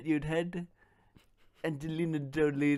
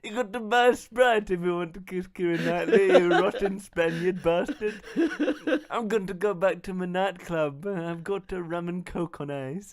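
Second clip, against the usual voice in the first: louder mocking film-star taunt; Johnny Depp voice; 3 dB louder than usual. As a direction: sneer at the Spaniard. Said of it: "my Johnny Depp accent".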